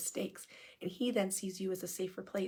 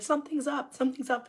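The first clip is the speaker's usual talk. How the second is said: suspicious worry; 5 semitones higher, 5 dB louder than usual. Retold or imitated. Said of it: "you've been like".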